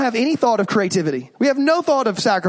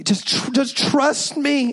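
begging parent; 3 semitones higher, slower than usual. Retold or imitated. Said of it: "And you're begging".

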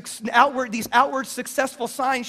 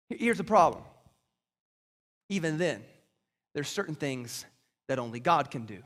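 much lower and softer, letting it sink in; hushed preaching; 9 semitones lower, 7 dB quieter than usual. Acted. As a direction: drop to a grave near-hush. Preacher drops to a hush.

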